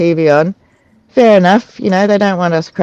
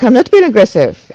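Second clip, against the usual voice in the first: mildly aggressive, higher-pitched denial; a raised, defensive retold retort; 5 semitones higher, 3 dB louder than usual. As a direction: imitate someone testily denying it. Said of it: "her tone was aggressive".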